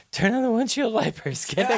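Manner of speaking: high-pitched mock yelp of disgust; comic high character voice; Rocket impression. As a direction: play an urgent order way up high. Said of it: "I love Rocket's response, which is".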